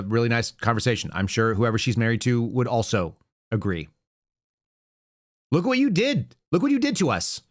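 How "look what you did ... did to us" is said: whiny mock complaint, higher on you; mocking the critics with a high whine; mock whining. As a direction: pout it out like a hurt child.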